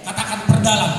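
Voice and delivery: loud call to the congregation; rally them to answer; shouted sermon call; forceful preaching. Acted.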